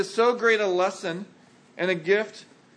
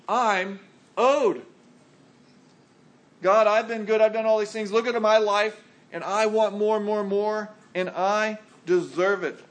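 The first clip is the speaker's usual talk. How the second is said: louder, puffed-up sense of being owed; self-righteous; 2 semitones higher, 4 dB louder than usual. Retold or imitated. Believer telling God he deserves more, self-righteous. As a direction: demand more like you've earned it. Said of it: "what happens when we're being self-righteous".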